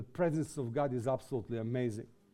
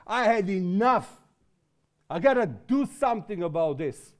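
holy anger; 3 semitones higher, 3 dB louder than usual. Retold or imitated. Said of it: "holy anger in you, which says".

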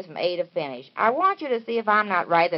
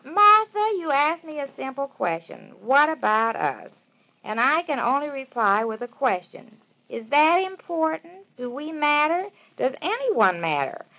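reading the hero's lines; 2 semitones higher than usual. Acted. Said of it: "this is him speaking".

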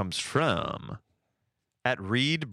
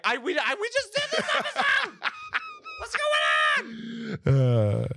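panicked. Pretend. Panicked at repeating the episode.

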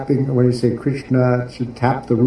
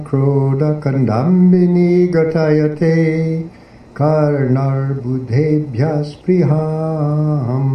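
slow verse recitation; 3 semitones higher, much slower than usual. Acted. Teacher opening a talk by reciting the Sanskrit poem, slow and measured.

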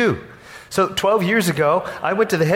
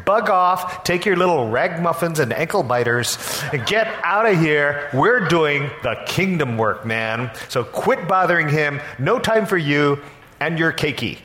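disciples shouting; 4 semitones higher than usual. Pretend. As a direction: shoo the pushy parents off like a self-important bouncer. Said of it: "and shout".

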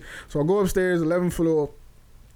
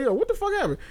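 retold shock; 12 semitones higher, faster than usual. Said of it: "I'm like".

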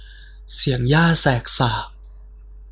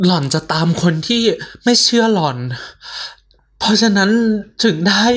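frightened; 5 semitones higher than usual. Acted. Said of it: "สเตฟฟี่พูดขึ้นมา".

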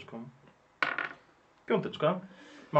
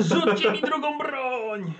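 high, drawn-out mock yell; hammed-up plea shouted to comrades; acted battle cry; 7 semitones higher, much slower than usual. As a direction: call out slowly in character, without real volume. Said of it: "I krzyczę".

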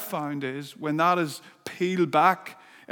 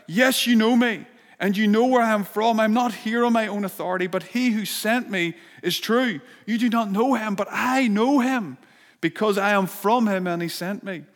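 crying out; 4 semitones higher, 3 dB louder than usual. Acted. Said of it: "he cried out".

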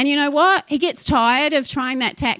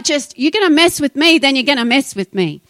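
louder, feisty retold challenge; feisty defiance; 5 dB louder than usual. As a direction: square up to the enemy. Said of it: "You've gotta get feisty".

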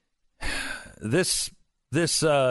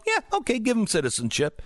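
mock agreement; 8 semitones higher, faster than usual. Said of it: "look at each other and go".

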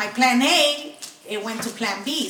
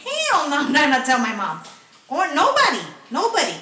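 emphatic refusal; 3 semitones higher than usual. Real, not acted.

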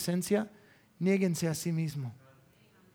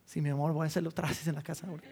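hurried promise; 3 semitones lower, 6 dB quieter, much faster than usual. Pretend. Mock quick reply to wife.

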